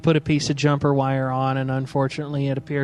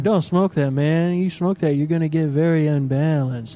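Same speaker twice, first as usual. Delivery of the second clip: hippie reefer voice. Retold or imitated. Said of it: "That's my hippie reefer voice".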